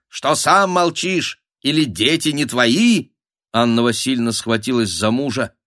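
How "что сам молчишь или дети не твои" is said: high, goading questions; needling. A narrator's reading. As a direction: needle your husband into acting. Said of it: "Стали поддевать своих мужиков". (подначивающий бабий тон)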